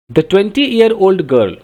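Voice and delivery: drawn out and clear; slow, careful read-out. Shown as a demonstration. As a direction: read the phrase slowly for students. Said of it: "अब ये देखो ना".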